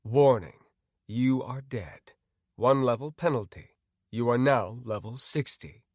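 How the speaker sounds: measured, even system notice; game system announcer. Acted. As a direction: announce it like an automated alert.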